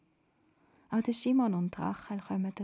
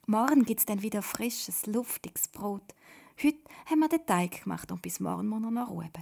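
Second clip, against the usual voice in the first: zufrieden; 2 semitones higher, 5 dB louder than usual. Acted. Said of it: "sagt sie zufrieden".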